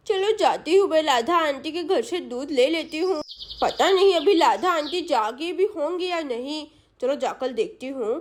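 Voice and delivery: put-on childish lisping chatter; a hint of a small girl on an errand; lightly voiced little girl.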